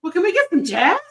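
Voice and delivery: retold coaxing, lifted in pitch at first; mock plea from a let-down parent; disappointed pleading. Heartbroken mother retelling her plea to her daughter, coaxing. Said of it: "I was so sad. I was like".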